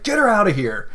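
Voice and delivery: high, projected command; shouting up. Pretend. Leader shouting up to his guards, high command. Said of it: "shouting up to his guards".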